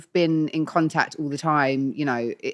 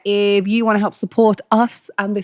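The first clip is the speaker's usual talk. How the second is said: goofy; much slower than usual. Real, not acted. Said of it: "You sounded, like, saucy goofy then".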